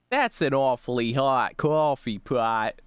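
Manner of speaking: slow, drawn-out New York accent. Shown as a demonstration. Streamer testing how New York they sound. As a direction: lean on the New York vowels in "coffee". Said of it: "how New York can I actually say that".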